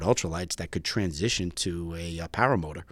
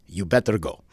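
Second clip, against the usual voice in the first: imitated Greek-accented urging; heavy Greek accent. Instructor nudging his student to launch, heavy Greek accent. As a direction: urge in a mock Greek accent. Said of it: "in a very heavy accent".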